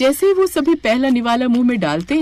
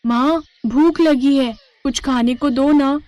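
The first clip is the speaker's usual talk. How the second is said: put-on slow, higher pleading child voice; a hungry kid begging mom; 4 semitones higher than usual. Hungry child begs mother.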